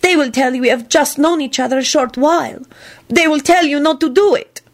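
high-pitched, fretful worry; unhappy. A narrator's reading. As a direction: predict it miserably. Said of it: "she said unhappily".

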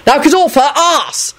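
high, drawn-out acted demand; acted angry order. A narrator's reading. Character snapping an order in quarrel.

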